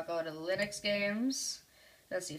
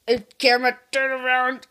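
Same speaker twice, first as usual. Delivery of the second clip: higher and louder, a big cheery goodbye; excited sign-off; 5 semitones higher, 12 dB louder than usual. Acted. Vlogger signing off to his viewers, loud and bright. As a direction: call it out to the viewers with gusto.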